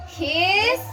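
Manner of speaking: word by word, spaced out; slow school dictation. Shown as a demonstration. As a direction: model it slowly. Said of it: "I will read it again".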